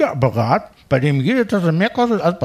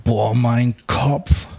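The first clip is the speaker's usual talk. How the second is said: slow, low groaning hangover voice; hungover; 6 semitones lower, much slower than usual. Acted. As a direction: moan it with a pounding head. Hungover, head hurts.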